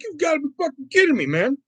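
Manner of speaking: high, fast you've gotta be kidding me; exasperated disbelief. Retold or imitated. Kid fed up with mom's cheating, fast high exasperation. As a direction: rattle it off, outraged. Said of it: "And I'm like".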